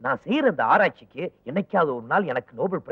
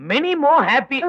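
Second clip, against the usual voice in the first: mock greeting; 9 semitones higher, 4 dB louder, much slower than usual. Mocking high greeting.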